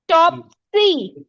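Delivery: टॉप सी very slow, firm टॉप, pause, then सी; stress on first syllable. Shown as a demonstration. Teacher asks children to notice, stressing टॉप in टॉप सी. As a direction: lean on टॉप in a split-up टॉप सी. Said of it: "हमें टॉप में ज्यादा stress लगाना पड़ रहा है".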